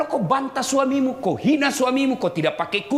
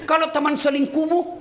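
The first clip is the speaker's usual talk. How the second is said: laughing shout; 7 semitones higher than usual. Real, not acted. Preacher scolding husbands who buy no jewelry, fast laughing shout.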